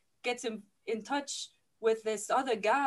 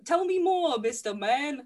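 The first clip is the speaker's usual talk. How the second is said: mock intrigue; 3 semitones higher, 5 dB louder than usual. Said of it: "So she goes".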